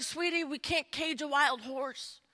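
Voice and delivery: soft, careful letdown; gentle parent. Acted. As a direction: break it softly to a child. Parents gently break news to daughter.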